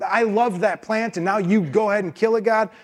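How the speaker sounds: hammed-up tantrum that trails off into a sulk; a put-on fit of pique, ending deflated; mock angry Jonah. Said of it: "He is so angry".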